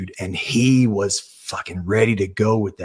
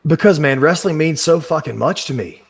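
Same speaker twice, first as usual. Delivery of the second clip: louder and higher, voice surging with feeling; emotional outburst; 6 semitones higher, 5 dB louder than usual. Real, not acted. A wrestler telling his podcast host what wrestling means to him, a real impassioned surge. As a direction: let it burst out of you, heart on sleeve.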